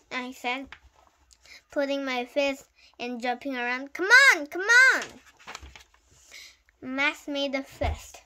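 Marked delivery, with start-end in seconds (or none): 3.9-5.0 high, loud repeated challenge; goading shout. A narrator's reading. Boy jumping around with fists up, goading shout. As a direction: dare the opponent to attack.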